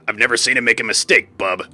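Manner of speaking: a light hint of Wolverine. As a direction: tack on a gruff bub. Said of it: "How would I do Wolverine?".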